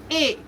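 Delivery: "A" as a brief ay; short vowel on "A". Shown as a demonstration. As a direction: keep "A" quick, not stretched. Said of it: "A is a short sound".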